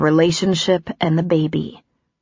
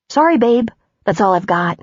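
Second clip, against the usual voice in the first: lightly mocking his breezy tone; a hint of mocking his voice; mimicking him; 4 semitones higher than usual. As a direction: toss it off like his careless apology. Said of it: "mimicking him".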